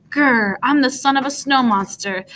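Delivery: loud growl then high yelled boast; monster yell. A narrator's reading. Luke as little snow monster, growling loud boast. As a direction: growl and announce yourself. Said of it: "little snow monster yelled".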